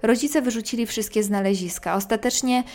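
measured storyteller reading a first-person ghost tale; scary story narration. A narrator's reading. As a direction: narrate an eerie true story, pausing between phrases. Reads a listener's ghost story aloud. (opowiadanie strasznej historii, głos lektorki)

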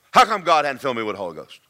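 quick, mildly mad retold demand. Angry man corners the preacher in the back, mildly mad. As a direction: imitate an annoyed man, words rushed. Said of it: "looked at me real mad and says".

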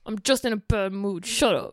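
mildly sulky put-on voice; mock-sulk, brushing people off; self-deprecating grump. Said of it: "more like self-deprecation".

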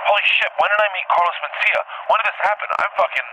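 high-pitched mock disbelief; retold shock. Dreamer watching himself on video, retold shock. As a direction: replay being stunned, pitched well up.

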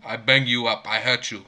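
mock Russian accent, deadpan; put-on Russian strongman voice; Vladimir Putin. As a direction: threaten in a rough Russian-accent imitation. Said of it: "best Vladimir Putin impression".

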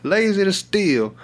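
lightly voiced decrepit old lady; slow old-lady talk. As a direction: imitate a slow-talking elderly woman. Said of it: "slow to talk".

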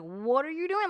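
sharper, nervous what are you doing; a little harsh. Shown as a demonstration. Wife demonstrating how she asked her husband, a little harsh. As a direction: ask it a little harshly, startled. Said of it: "maybe I said it a little harsh".

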